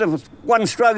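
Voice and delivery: a light devil voice pushing for fear. Acted. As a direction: try to scare him as the devil. Devil threatening.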